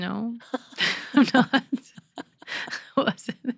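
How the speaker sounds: choked up. Real, not acted. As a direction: laugh off real tears while choked up. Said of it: "are you crying".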